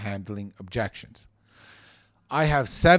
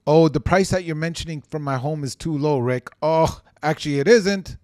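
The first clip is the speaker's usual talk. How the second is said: combative comeback; 2 semitones higher, 4 dB louder than usual. Pretend. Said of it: "I'm not gonna say it like that".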